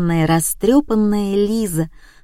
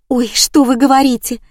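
put-on girlish soprano; 5 semitones higher, 4 dB louder than usual. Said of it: "чистила девичья сопрано".

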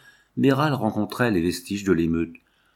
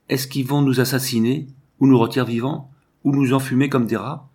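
frightened; 4 semitones higher, 4 dB louder than usual. Acted. Terrified maid imagines being killed.

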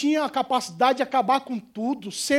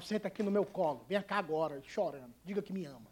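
mother's tender call; 6 semitones lower, 14 dB quieter than usual. Retold or imitated. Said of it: "pra ela chamar".

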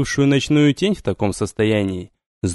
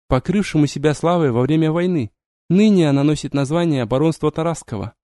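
put-on young woman voice; 4 semitones higher than usual. Vampiress explains.

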